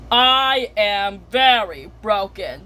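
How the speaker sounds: slow, lightly voiced broken computer; drawn-out, word-by-word computer voice. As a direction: speak slowly as a computer breaking down. Computer voices its own breakdown.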